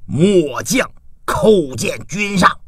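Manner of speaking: slow, formal military greeting; deliberate, weighty announcement; general's salute. A narrator's reading. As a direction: report to your lord as a kneeling general. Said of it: "倒地叩道".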